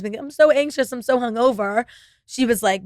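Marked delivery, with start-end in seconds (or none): 0.2-1.9 imitated moan to a friend, starting high; mock whining complaint. Calling friends anxious and hungover, mock whining. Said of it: "when I was calling my friends".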